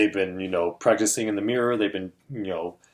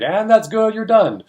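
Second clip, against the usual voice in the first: higher, louder cut-off; cutting her off; 10 semitones higher, 5 dB louder than usual. Retold or imitated. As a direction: end her time briskly. Timekeeper cutting off the pitch.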